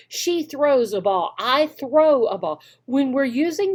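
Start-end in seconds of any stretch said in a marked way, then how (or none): 0.1-2.6 slow drill sentences. Shown as a demonstration. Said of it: "those complete sentences".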